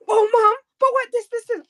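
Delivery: high, put-on voice of a startled Kim; imitating Kim. Retelling Kim walking in on a live, high mock voice. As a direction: squeak it like a surprised kid. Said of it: "Bull face".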